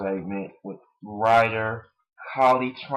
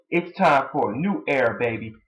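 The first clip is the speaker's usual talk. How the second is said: lightly voiced sneering promo; imitating a wrestler's promo; mocking Punk quote; 4 semitones higher than usual. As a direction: toss off his catchphrase with a sneer. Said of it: "and saying".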